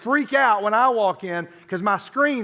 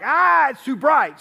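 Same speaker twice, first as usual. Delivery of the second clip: mock startled cry; 7 semitones higher, 7 dB louder, slower than usual. People recoil from Jesus' brightness.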